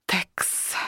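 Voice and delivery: breathy whispered aside; just breathe the word out; unvoiced little whisper. Creature mutters inside her head.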